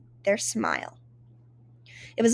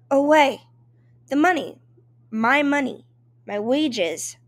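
loud, higher pleading cry for wages; breathless cry; 3 semitones higher, 4 dB louder than usual. A narrator's reading. Immigrant maid to her employers, breathless desperate cry. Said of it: "I cried breathlessly".

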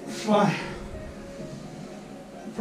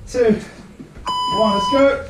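barking gym coach. Real, not acted. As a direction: bark the go to the class. Coach counting down to start.

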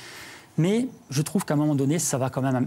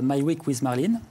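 English title "My Week with Marlene" said with a French accent. Real, not acted. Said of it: "pardonnez mon accent anglais".

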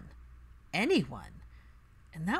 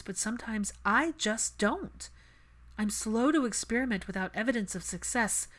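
lightly voiced, a touch higher; Hermione's voice; 4 semitones higher than usual. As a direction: candid self-assessment, earnest. Hermione listing her flaws.

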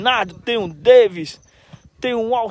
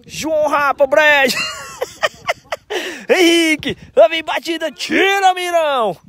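live play-by-play; 4 semitones higher than usual. Real, not acted.

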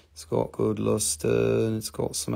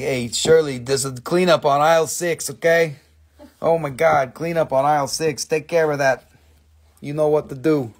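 store intercom call; 3 semitones higher, 5 dB louder than usual. Pretend. Calling a coworker across the store.

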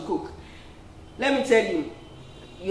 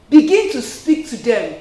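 louder, insistent repeat; emphatic repeat; 7 dB louder than usual. Real, not acted. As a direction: push it home hard.

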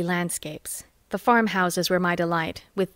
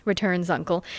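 usual speaking voice

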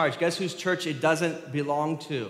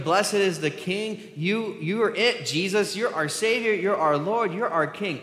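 high, raised acclamation of a king; crowd shouting; 6 semitones higher, 4 dB louder than usual. Retold or imitated. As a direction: hail him like an excited crowd. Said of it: "They shouted".

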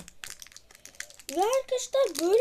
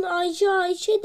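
parrot imitation; 4 semitones higher, 6 dB louder than usual. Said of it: "o da papağan olsun".

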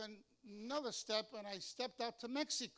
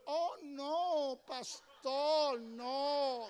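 sister objecting; 4 semitones higher, 7 dB louder, much slower than usual. Retold or imitated. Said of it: "the sister says".

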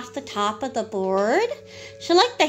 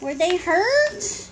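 slow question, higher at the end; slow, raised-pitch question; concerned question; 5 semitones higher, slower than usual. Real, not acted. Asks the child about the fall.

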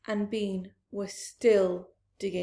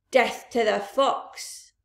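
shouted; 5 dB louder, slower than usual. Acted. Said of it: "shouted Bunce".

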